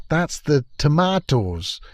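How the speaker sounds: slowly shown Scottish twang; Scottish accent. Shown as a demonstration. Pointing out the Doctor's accent, light Scottish twang. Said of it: "That's the Scottish little thing".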